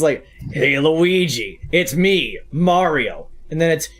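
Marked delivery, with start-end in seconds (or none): 0.5-3.3 terrible Mario impression, slow; a lightly voiced Mario greeting his brother. Streamer demos his terrible Mario voice, hammed-up. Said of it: "my voice for Mario".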